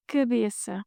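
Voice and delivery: cabeça with the first a kept closed and audible; correct cabeça. Shown as a demonstration. Teacher models the right cabeça for learners.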